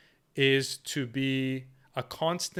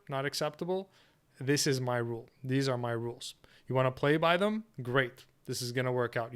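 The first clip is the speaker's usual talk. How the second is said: firm without raising the voice, easing into a polite send-off; assertive, not aggressive. Shown as a demonstration. Man stating his rules to a woman, calmly assertive. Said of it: "It's assertive, not aggressive".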